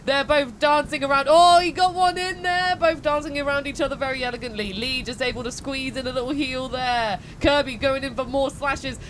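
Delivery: lively play-by-play commentator; sports commentary. Acted. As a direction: call the fight like a sportscaster. Live play-by-play of the fight.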